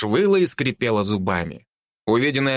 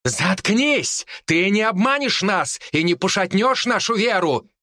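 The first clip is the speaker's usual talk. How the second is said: higher, fervent shout; paladin commander shouting; 8 semitones higher than usual. A narrator's reading. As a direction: shout down the wolf. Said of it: "раздался крик командира паладинов".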